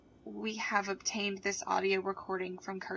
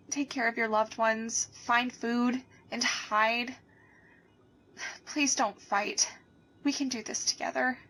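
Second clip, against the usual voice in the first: sad pleading. Acted. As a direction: beg them gently to take care. Anchor breaks down, pleads.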